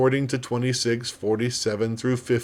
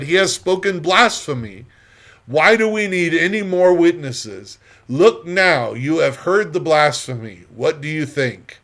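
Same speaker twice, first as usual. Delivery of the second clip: indignant accusation; 4 semitones higher, 4 dB louder than usual. Acted. High priest denounces blasphemy to council.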